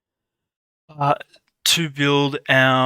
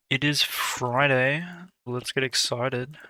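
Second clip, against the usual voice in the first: flat, deadpan, no excitement at all; monotone voice; slower than usual. Shown as a demonstration. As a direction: say it like you couldn't care less. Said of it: "I said that in such a monotone voice".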